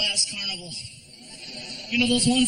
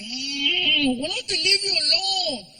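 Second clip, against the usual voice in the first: put-on high whiny boy; annoyed kid; 6 semitones higher, slower than usual. Annoyed stepson about the fans, high whiny voice. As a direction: whine it like a jealous boy. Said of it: "He's like".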